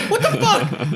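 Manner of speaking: very high, outraged comic shout; high mock shout. Robbers ignored by the arguing pair, very high outraged shout. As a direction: shout it squeaky and fed up. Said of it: "the guys are like".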